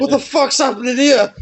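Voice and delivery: high, startled cry of alarm; shocked yelp. Retold or imitated. Woken in a moving caravan, high startled yell. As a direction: jolt awake and yell in disbelief.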